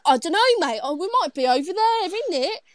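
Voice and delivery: high-pitched, hammed-up fake British accent; American faking British. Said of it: "someone that's American trying to be British".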